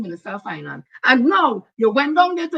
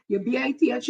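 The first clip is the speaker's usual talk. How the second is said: spelled out; 3 dB quieter than usual. Shown as a demonstration. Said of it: "As old people used to say".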